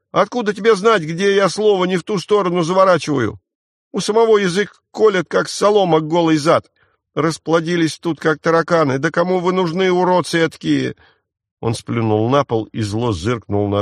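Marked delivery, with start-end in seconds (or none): 0.1-11.0 высоко и громко, зло бранясь; руганись на всех с яростью; разъярённо. Acted. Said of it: "Разъярился вдруг мальчишка". (мальчишка в ярости бранит всю компанию)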